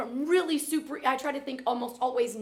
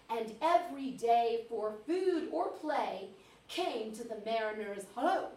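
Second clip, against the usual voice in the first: slow, measured poetry reading; poem recitation; slower than usual. Acted. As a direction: model expressive verse reading for a class. Reads poem aloud.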